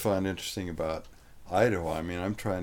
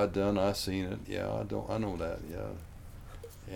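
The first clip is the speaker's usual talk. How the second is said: cowboy dialect; 5 dB quieter, slower than usual. Retold or imitated. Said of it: "it's all gonna be".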